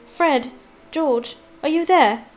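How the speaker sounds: calling out. A narrator's reading. Mother calling from outside train.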